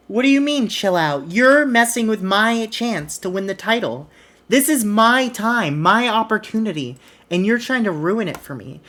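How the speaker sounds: hammed-up indignant rant; mock angry protest. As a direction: play the wronged wrestler ranting. Biggie arguing backstage.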